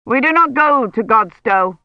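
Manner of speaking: a hint of a brusque churchman; curt envoy. A narrator's reading. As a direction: dismiss her firmly. Envoy's voice in story.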